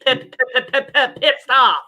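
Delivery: stammering pip- pip- pip- before pissed; mild mock stutter; Porky Pig stutter.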